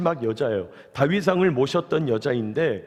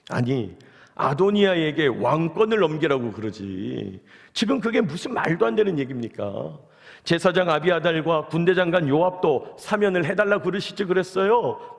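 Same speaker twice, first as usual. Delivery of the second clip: mock indignant outburst, only mildly heated; angry Solomon. King Solomon scolding his mother over Adonijah, mildly acted anger. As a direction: act out an exasperated son's sarcastic protest. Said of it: "막 이러면서 화를 내고 있는 거예요".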